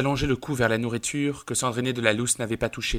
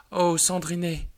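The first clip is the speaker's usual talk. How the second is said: crying out; 6 semitones higher, slower than usual. Acted. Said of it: "pleura-t-elle".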